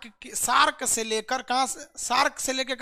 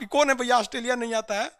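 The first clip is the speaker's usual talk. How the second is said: laughing; faster than usual. Real, not acted. Amused at student question.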